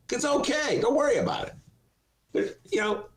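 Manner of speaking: high, lightly horsey talking-horse voice; a hint of the TV horse; Mister Ed impression. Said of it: "That's my Mister Ed imitation".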